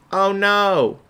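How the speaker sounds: hammed-up eager pitch. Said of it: "And then you're like".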